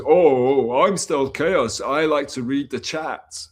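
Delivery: loud drawn-out mocking voice, slow; mock Stealth Chaos impression. Streamer retells Crimax mocking him, loud slow mimicry. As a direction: lampoon the streamer who reads chat, slowly. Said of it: "when he did a Stealth Chaos impersonation".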